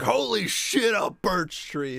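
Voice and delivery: high, delighted cry over a tree; excited. Retold or imitated. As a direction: gasp it out like spotting treasure. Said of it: "I'm like".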